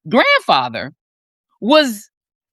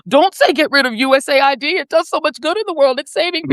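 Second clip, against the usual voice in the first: higher-pitched, mildly pleading imitation; mock pleading; 5 semitones higher than usual. Imitating a think tank defending USAID, mock pleading. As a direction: plead in a raised voice, as a mock worried advocate.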